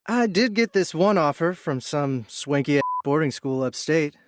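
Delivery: lightly teasing, mock-boastful; a hint of playful sarcasm; sarcastic flirty. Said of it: "using a sarcastic, flirty tone".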